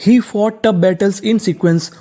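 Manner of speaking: careful slow sentence; slow model reading. Shown as a demonstration. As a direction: read very slowly, word by word. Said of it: "full sentence read".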